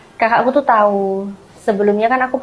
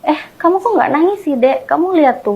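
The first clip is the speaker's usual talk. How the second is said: lightly imitated sibling's puzzled question, higher; questioning older sibling; 6 semitones higher than usual. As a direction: retell it as a puzzled sibling, pitched up. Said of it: "aku ditanya sama kakakku".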